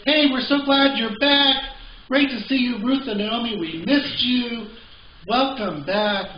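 high, loud excited greeting; welcoming townsfolk. Acted. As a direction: gush like delighted small-town neighbors. Acting out hometown folk greeting returnees.

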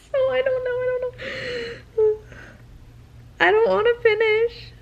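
high, breaking, on the edge of tears; tearful. Real, not acted. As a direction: whimper like you might cry. Near tears over the book.

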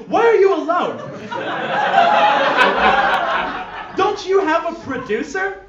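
high, loud brash questions; loud shout. Acted. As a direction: bark it across the booth.

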